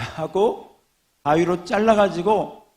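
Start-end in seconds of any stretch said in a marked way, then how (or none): 1.2-2.7 angry threat. Acted. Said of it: "화가 나서 크게 소리를 쳤습니다".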